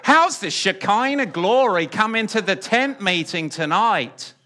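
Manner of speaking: Southern preacher voice, laughing; southern preacher accent. Acted. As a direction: ham up a Southern revival call, laughing. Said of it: "I can do a southern accent".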